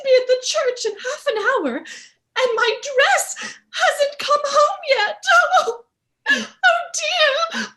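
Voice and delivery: slow, wailing sobs, voice cracking; crying. Acted. Bride sobbing to her father that her dress hasn't come. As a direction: howl over the missing dress. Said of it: "What are you crying for?".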